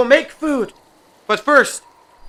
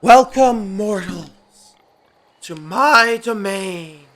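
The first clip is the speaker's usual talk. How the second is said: low, slow deity greeting; god voice; 3 semitones lower, slower than usual. Acted. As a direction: boom down as a lordly god. Plays a god ruler.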